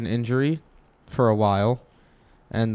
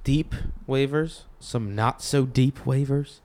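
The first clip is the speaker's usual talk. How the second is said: exaggerated cartoon intonation; 2 semitones higher than usual. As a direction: stretch every phrase like a cartoon. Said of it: "Why are you talking like that?".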